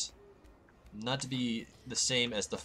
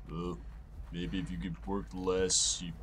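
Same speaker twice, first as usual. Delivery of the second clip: a hint of a nagging friend, lower and softer; lightly voiced Lloyd; 5 semitones lower, 4 dB quieter than usual. Imaginary friend Lloyd nagging the player about sleep, lightly voiced. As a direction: gently scold him about sleep, barely changing voice. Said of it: "Lloyd, I'll get right on that".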